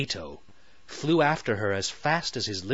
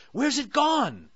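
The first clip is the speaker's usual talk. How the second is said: curious Sally. Acted. Sally voiced by narrator.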